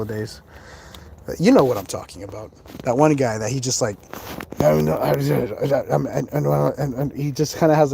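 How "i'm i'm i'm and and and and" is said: imitating a halting stutter. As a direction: stutter on each I'm. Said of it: "these stutters".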